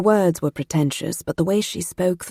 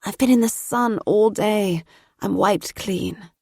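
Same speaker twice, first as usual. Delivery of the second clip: put-on sleepy girl; 4 semitones higher than usual. A narrator's reading. Sleepy girl after sunny day.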